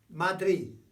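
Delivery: "Madrid" ending in a faint th-like d; dribbly final d. Shown as a demonstration. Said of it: "a sort of a dribbly z".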